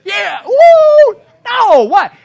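mock cheer. Preacher mocking a sinful world, high sarcastic whoop.

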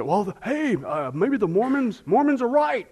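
lightly voiced eager believer, pitch climbing; people arguing. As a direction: imitate someone excitedly making a mistaken case. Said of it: "people say".

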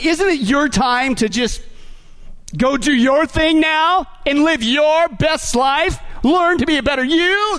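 rising, drawn-out mock pep talk; tempting inner voice. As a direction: coax like a self-help tempter, pitch climbing. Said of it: "you hear this voice".

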